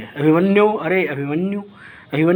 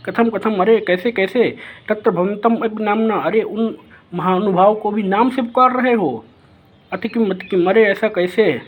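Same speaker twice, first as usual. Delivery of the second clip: put-on offended young prince; 3 semitones higher than usual. Abhimanyu questioning Brihannala about his mother, lightly voiced offended prince. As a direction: lightly play the boy taking offence at personal questions.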